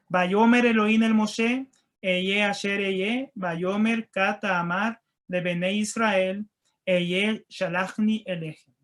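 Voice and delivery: each Hebrew word read out very slowly and carefully. Shown as a demonstration. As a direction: spell the Hebrew verse out word by word for the class. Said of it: "a ver si lo leí en hebreo".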